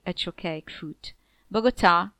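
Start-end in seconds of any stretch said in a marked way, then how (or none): 1.5-2.1 "Bogota" with weight on the last syllable; two light beats, then a strong -ta in "Bogota"; anapestic stress. Shown as a demonstration.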